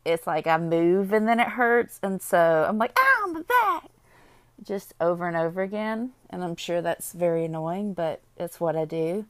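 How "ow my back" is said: high, hammed-up whine of pain; mock whimper at a sore back; whiny complaint. Imitating her own whining every time her back twinges. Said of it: "I am so whiny when my feet hurt".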